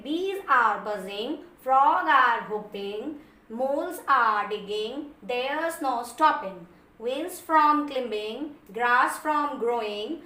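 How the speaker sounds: reciting a poem stanza very slowly, line by line; slow poem reading. Acted. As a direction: read each line slowly for students. Reads poem stanza to class. (कविता की पंक्तियाँ बहुत धीरे पढ़ना)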